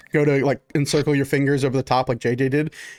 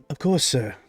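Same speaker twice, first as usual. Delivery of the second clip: lightly voiced, polished tiefling butler; a hint of formal waiter; courteous servant. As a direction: oblige a guest with measured deference.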